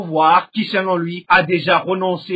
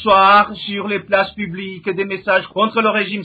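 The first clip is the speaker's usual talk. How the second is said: news anchor; 3 semitones higher than usual. Acted. News anchor opening segment.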